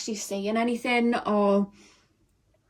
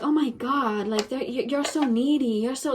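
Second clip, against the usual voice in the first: put-on slipping into an American accent; 3 semitones higher than usual. Partner complaining that you are too needy, American accent. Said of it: "my voice went American then".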